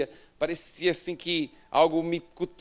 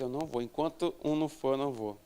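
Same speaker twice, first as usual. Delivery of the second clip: quiet refusal; 7 dB quieter, faster than usual. Retold or imitated. Inner refusal while holding back.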